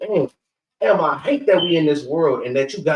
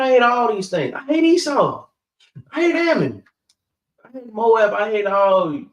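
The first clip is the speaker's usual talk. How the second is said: louder and higher, each hate hammered out; preacher building a list of hates, louder and much higher; fervent preaching; 4 semitones higher, 4 dB louder than usual. Real, not acted. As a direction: pound out every hate like a sermon climax.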